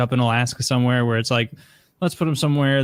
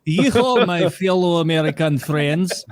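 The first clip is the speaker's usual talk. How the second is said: put-on Russian accent; 3 semitones higher, slower than usual. Hidden Russian blending in with Wyoming locals, mock Russian accent. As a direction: fake being a cowboy in a Russian accent. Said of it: "a guy with that accent".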